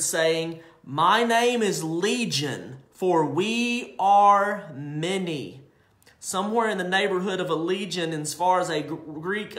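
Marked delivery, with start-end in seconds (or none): 0.8-5.6 slow, eerie demon voice; demon answering. Acted. The demon answers Jesus, slow and eerie. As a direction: drag it out like a many-voiced demon. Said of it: "And the demon answered".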